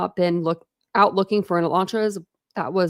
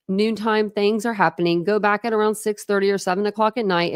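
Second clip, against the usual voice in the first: steady, projected read-aloud voice; 4 dB louder than usual. A narrator's reading. Reading a book to listeners, steady read-aloud narration.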